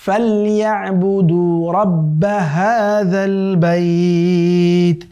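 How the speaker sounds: slow, drawn-out melodic tilawat; Quran recitation. Shown as a demonstration. Teacher recites the verse for students in slow melodic chant. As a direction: chant the verse slowly with long held vowels. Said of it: "হাটাও এখানে".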